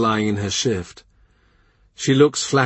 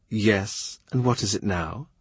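weary impatience; 5 dB quieter than usual. Acted. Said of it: "She speaks in a tone of".

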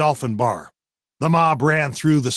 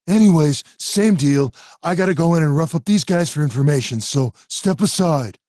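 pushy; 4 semitones higher, 4 dB louder than usual. Acted. Jimmy pushing past bouncer.

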